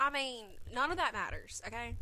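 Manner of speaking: a little tipsy. Real, not acted. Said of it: "I'm a little tipsy right now".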